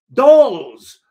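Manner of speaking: mock outrage; incredulous shout. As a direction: spit out the word in disbelief. Narrator exclaims in disbelief.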